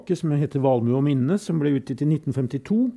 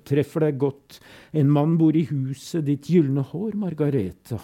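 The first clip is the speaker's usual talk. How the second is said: building intensity. Acted. Fugue builds to climax.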